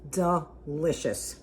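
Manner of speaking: drawn out delicious; slow savoring. Real, not acted. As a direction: stretch it out lovingly. Final tasting verdict.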